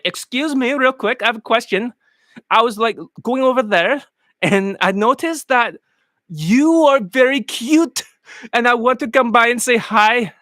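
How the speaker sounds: a light mock Indian accent, chatting up a girl; lightly put-on Indian accent, slowing on very cute; imitating Indian accent. Coach imitating a student's opener in a light Indian accent. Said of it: "let me imitate their act".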